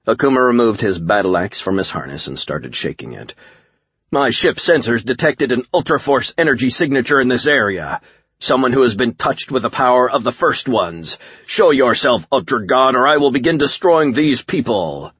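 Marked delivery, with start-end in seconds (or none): 4.1-15.1 high, projected villain voice; menacing alien warlord. A narrator's reading. Alien warlord demands Ultra God show himself, menacing. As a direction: proclaim it as a threat to the whole crowd.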